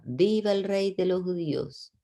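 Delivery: high-pitched jeering acclamation; mocking cheer. A narrator's reading. Soldiers make fun of Jesus, mock cheering. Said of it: "comenzaron a burlarse de él y gritaban".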